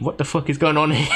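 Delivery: laughing through the words. Real, not acted. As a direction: crack up while asking. Breaks down laughing at glitch.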